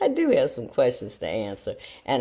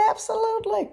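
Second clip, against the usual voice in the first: emphatic absolutely. Retold or imitated. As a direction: give it a big confident yes. Retold emphatic agreement.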